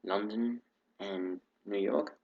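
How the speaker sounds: light put-on British accent throughout; a casual British accent, not fully committed. Real, not acted. Greeting his viewers in a put-on British accent. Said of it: "Don't know why I'm speaking in a British accent".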